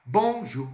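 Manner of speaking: "Bonjour" lifted high and bright as a model; high teacher model of "Bonjour"; model word. Shown as a demonstration. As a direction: say "Bonjour" clearly for learners to copy. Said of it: "vai ser o bonjour".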